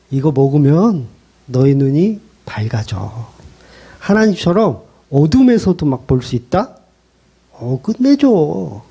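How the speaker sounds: slow, coaxing temptation; sweet tempting serpent. Retold or imitated. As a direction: lure Eve gently and slowly. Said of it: "사탄은 예쁘고 좋은 말". (사탄이 하와를 천천히 달콤하게 꼬드김)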